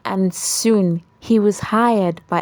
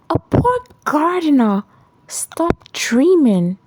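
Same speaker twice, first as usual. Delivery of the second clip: mocking; 8 semitones higher than usual. A narrator's reading. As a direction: laugh him off. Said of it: "She laughed at him and said".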